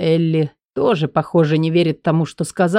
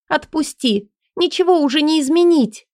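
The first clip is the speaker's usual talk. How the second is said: frightened; 10 semitones higher than usual. Acted. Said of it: "Испуганно".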